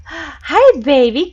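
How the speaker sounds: high, sweet pet voice. Real, not acted. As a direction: coo at the cat, pitched well up. Greeting her cat warmly.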